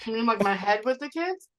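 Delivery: talking through a mouthful of food; mouth full. Real, not acted. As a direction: speak around a bite. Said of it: "She's talking with her mouth full".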